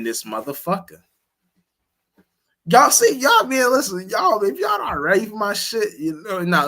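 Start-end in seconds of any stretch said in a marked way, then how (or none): 2.7-6.7 higher, louder hype call to the viewers; rally the audience. Real, not acted. Streamer calling out to viewers, louder and higher.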